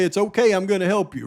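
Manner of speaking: quickly rattled-off quote; fast, offhand reading. Shown as a demonstration. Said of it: "But you hear what was just said right there".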